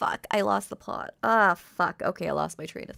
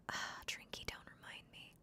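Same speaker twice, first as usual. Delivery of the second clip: usual speaking voice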